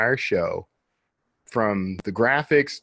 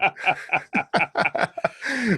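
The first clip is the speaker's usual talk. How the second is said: laughing; 8 semitones higher than usual. Real, not acted. Laughing at his own warning.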